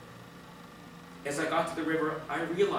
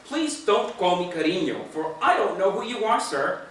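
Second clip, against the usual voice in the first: louder and higher, offended and firm; indignant reply; 5 semitones higher, 6 dB louder than usual. Acted. To the stranger who called her cariño, indignant and louder. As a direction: put him in his place with wounded pride. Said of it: "I indignantly replied".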